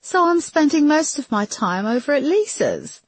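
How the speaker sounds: high-pitched, mildly tearful; holding back tears. A narrator's reading. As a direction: explain it as if tears are close. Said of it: "trying to keep back tears".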